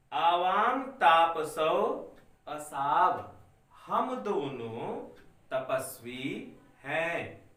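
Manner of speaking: slow, spaced-out reading for the class to follow; slow dictation. Shown as a demonstration. Teacher dictating Sanskrit lines to students, slow and clear. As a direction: spell it out slowly so children can write along. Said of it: "मैं धीरे धीरे बोल रहा हूं बच्चों".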